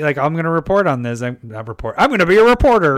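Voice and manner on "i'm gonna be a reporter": high, loud, fast nerdy newscaster; nerdy reporter voice. Pretend. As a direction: play a nerdy news reporter. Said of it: "a nerdy voice all of a sudden".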